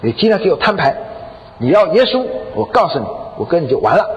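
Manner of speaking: retold insistent demand; pressing ultimatum. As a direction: lay down an ultimatum, dropping at the end. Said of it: "她先生就逼她".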